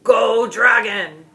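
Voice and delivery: loud, slow gleeful cheer; excited squeal. A narrator's reading. Young lad cheers the dragon with a squeal. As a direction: cheer for the monster like a kid. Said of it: "waved his wooden sword and squealed".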